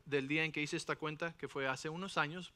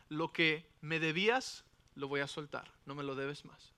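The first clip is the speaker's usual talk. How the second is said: a lightly voiced merciful king, calm and low; gentle master; 4 semitones lower than usual. Forgiving king tells his servant he owes nothing, tender.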